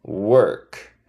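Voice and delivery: "He finishes" stretched very slowly; teacher drilling "He finishes work" slowly; slow model sentence. Shown as a demonstration. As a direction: spell out "He finishes work" word by word. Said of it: "Yes, good job".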